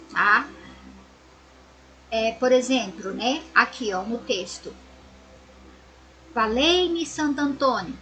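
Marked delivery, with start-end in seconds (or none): 6.3-8.0 Valei-me pitched up with a fall on Santo Antônio; exclamation tone. Shown as a demonstration. Teacher showing the class how an exclamation sounds, rising call. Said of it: "ponto de exclamação".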